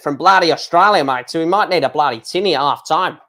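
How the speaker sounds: lightly put-on Australian accent; mock Australian accent, tossed off; awful Australian accent. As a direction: do a half-hearted, bad Australian accent. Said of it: "That's an awful Australian accent".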